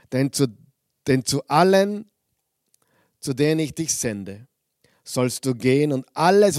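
solemn scripture reading from the pulpit. Acted. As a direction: read the verses out like a proclamation. Reads Jeremiah chapter one aloud.

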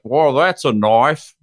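slow, drawn-out Australian accent try; a tourist's go at an Australian accent, "Well, that's a knife.". Shown as a demonstration. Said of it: "I just wanted to do my Australian accent".

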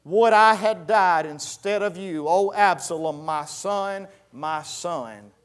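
high, loud, slow lament; preacher's acted wail of grief, drawn out; grieving king. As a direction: cry out for a lost son, declaimed. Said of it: "was deeply moved and went up to the chamber over the gate and wept".

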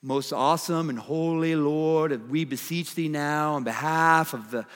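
lofty formal prayer, lightly voiced; mock reverent prayer. Preacher mocking a formal reverent prayer, mildly pompous. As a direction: pray like a stiff churchman. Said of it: "like this reverent".

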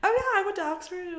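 high put-on Liverpool voice; quick Liverpool accent brag. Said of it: "they're just like".

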